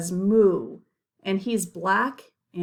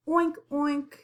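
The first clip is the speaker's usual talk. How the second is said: pig oink; 5 semitones higher than usual. Shown as a demonstration. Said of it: "It says".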